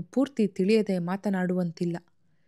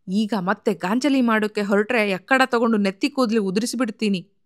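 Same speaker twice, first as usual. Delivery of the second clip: a touch of read-aloud anger, slightly raised; angry; 4 dB louder than usual. Acted. Brother scolding his sister, a mild angry read. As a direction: narrator lends the brother mild temper. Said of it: "ವೆಂಕಟೇಶನಿಗೆ ಸಿಟ್ಟು ಹೊತ್ತಿತು".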